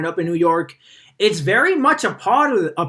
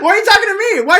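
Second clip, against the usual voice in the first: much higher and louder, laughing through it; laughing echo; 13 semitones higher, 7 dB louder, much faster than usual. Real, not acted. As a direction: laugh out the line, repeating the joke. Echoing the joke while laughing.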